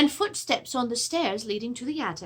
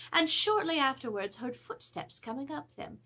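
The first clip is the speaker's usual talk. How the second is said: ordinary delivery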